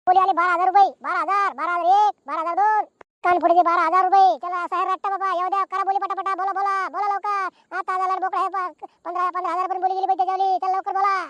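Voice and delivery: running auction call; auctioneer's patter. Acted. Auctioneer urging villagers to bid quickly, auction patter. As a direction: urge the crowd on, bid after bid.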